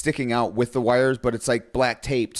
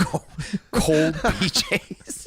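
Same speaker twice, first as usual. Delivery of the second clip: carnival barker; 4 semitones higher, much slower than usual. Pretend. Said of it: "Old-timey Carnival Barker".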